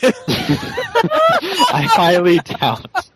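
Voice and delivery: words swallowed in a big laugh; laughing hard. Real, not acted. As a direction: say it while cracking up. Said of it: "That's a good Pine Leaf laugh there".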